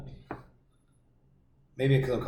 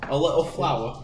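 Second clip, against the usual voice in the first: higher mock-English accent sliding into Irish; put-on English-Irish accent; English accent turning Irish; 4 semitones higher, 4 dB louder than usual. Shown as a demonstration. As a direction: attempt English, drift into rough street Irish. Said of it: "Kinda turns into a rough street Irish accent there".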